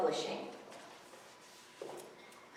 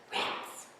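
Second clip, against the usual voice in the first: muttered rats; 4 dB quieter than usual. Acted. Gary disappointed.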